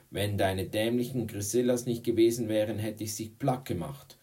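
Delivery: heated retort. Acted. Tom hitting back at Courtney, heated retort. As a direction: defend yourself against the taunt. Boy retorts in class quarrel.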